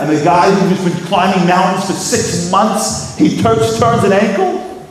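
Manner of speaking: mock outrage, stretching the key words; retold yelling at God. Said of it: "he's yelling at God".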